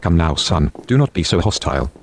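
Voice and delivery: detective tells Alex to calm down; soothing detective. Acted. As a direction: talk the angry man down.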